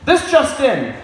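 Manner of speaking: newsreader voice with a little laugh in it; lightly mock newscaster; TV anchorman impression. Comic to crowd, newsman mid-sex, lightly voiced. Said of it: "my impression of a T V anchor man having sex".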